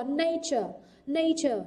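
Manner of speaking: "nature" stressed on NA, falling after; first-syllable stress. Shown as a demonstration. Teacher modelling word stress for students, "nature" stressed on NA. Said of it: "trọng âm rơi vào âm tiết thứ nhất".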